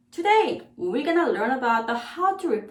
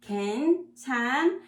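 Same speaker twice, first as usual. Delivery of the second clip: fast model; 2 semitones higher, faster than usual. Shown as a demonstration.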